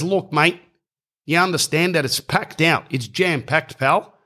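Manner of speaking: high-pitched, acted-out pub man brushing someone off; exasperated refusal.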